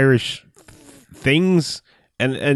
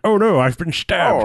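slow, high, hammed-up stage death; mock-tragic stage actor, drawn out; old-school theater; 6 semitones higher than usual. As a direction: play it as a fake theatrical stabbing. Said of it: "literally does the old school, like, theater".

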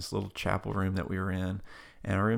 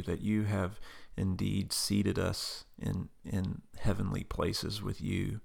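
prayer. Acted. Asked to close the show, praying for listeners.

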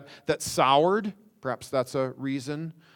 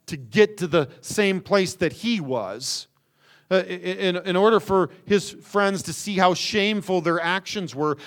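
ordinary delivery

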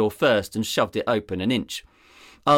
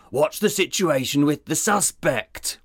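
groaned through gritted teeth; 6 semitones higher than usual. Acted. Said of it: "groaned through gritted teeth".

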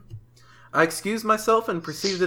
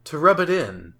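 mock sage; 4 semitones lower, slower than usual. Mock proverb reading.

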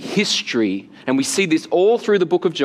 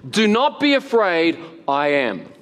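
weighty declaration. Acted. Jesus to frightened disciples on the boat, solemn declaration. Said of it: "hints in this text that, that Jesus is signaling something more significant".

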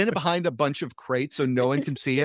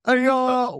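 higher, snide boss question; high mocking boss voice; 11 semitones higher than usual. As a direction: ask it high and sneering. GM voices Chad to imposter.

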